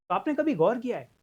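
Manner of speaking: ordinary delivery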